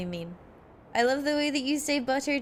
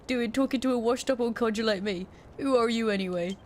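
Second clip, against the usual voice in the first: lightly voiced washed-up Cockney publican, weary; a hint of a grumpy old London landlord; old Cockney codger; 3 semitones higher than usual. NPC publican dialogue read aloud.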